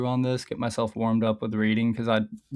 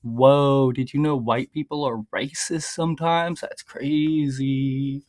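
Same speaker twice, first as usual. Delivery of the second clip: mock amazement; slower than usual. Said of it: "here's your obligatory Chud the Builder video".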